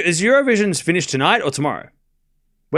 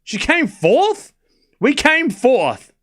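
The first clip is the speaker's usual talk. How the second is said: stunned disbelief; 9 semitones higher, much slower than usual. Real, not acted. Outraged at Australia's placing.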